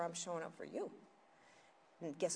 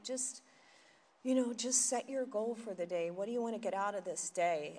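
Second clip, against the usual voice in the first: mock meditation voice; 2 semitones higher than usual. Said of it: "It's like".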